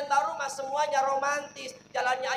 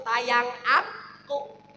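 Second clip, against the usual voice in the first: cutesy wife; 5 dB louder, much slower than usual. Acted. Wife greeting husband sweetly.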